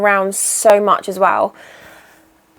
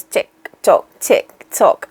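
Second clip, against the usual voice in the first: mock clock tick; 2 semitones lower, slower than usual. Shown as a demonstration. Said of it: "obviously not, not in that sound".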